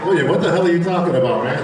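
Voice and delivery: fast, laughing tease. Real, not acted. Laughing at William's emotional speech, fast teasing question. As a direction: laugh through a mock-baffled jab.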